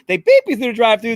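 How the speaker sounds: hammed-up gangster imitation, punching beep; Pesci impression. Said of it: "I'm doing my best, Pesci".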